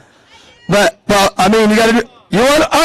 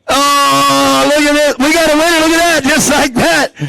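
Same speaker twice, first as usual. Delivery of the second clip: excited; 5 semitones higher than usual. Real, not acted. Cheering a winner.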